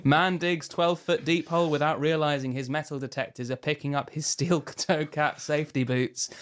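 mock news anchor delivery; newscaster voice. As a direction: read headlines like a serious newsreader. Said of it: "I'm going to read in a pretend newscaster voice".

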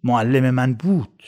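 slow, heavy repeat of the verdict; slow bitter echo. A narrator's reading. The narrator echoes Munir's words for Rasul, slow and heavy. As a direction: let each word sink like a stone. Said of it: "چی شنید؟".

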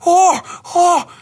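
high, yelping mock whimper; imitating Hubie whimpering. Mimicking Hubie dodging thrown junk on his bike, high yelps. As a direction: squeal like a panicked nerd dodging junk. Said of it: "a three-second scene of him just, like".

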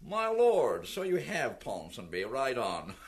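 dropping low and dry for the duke; a hint of an unbothered general brushing it off; Wellington. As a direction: Wellington answering Ponsonby, low and offhand. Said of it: "And Wellington looked at him ... and said".

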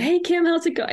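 mock LA accent, bright and upbeat; LA type. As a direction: gush like a full-blown LA type. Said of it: "a full-blown L A type".

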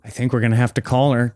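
normal talking voice

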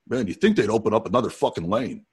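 mildly grumpy rock star gripe; lightly voiced grouchy complaint; grumpy Janie. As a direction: imitate a fed-up man in a checkout line. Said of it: "a grumpy version of Janie".

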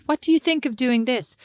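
put-on American accent. Shown as a demonstration. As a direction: ask it in a practised American voice. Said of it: "that amazing American accent".

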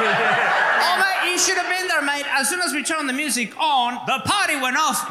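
hammed-up Aussie bloke raving about the party; Australian accent. Imitating an Aussie mate bragging about a party, Australian accent. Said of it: "the speaker's Australian accent impersonation".

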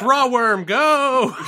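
high, loud nerdy battle cry; nerd voice. Acted. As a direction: summon your card like a giddy nerd. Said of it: "in this nerd voice".

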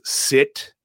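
a sudden barked order, then it drops; retold villain yelling at his hostage; mock yell. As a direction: snap the first word out loud. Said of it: "Hans yells".

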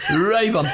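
Raybon said carefully, RAY-bon, after spelling it out; corrected pronunciation. Shown as a demonstration. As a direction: settle on Raybon, clear and deliberate. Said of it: "It's spelled R U A B O N".

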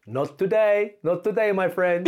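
mock menacing warlord. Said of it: "And he went".

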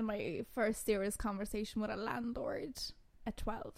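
a soft whisper, letting the secret out; whispered confession. Real, not acted. Roberta whispering to the host that it was at twelve. Confiding shocking fact.

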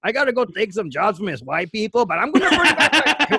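put-on rambling cholo-accent bit; singsong Mexican accent, half laughing; mock Mexican accent. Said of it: "hear people talk like this".

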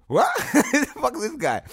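high, loud shocked yell through laughter; mock the crowd's startled outrage, laughing; laughing retold crowd shout. Retold crowd shocked at his face.

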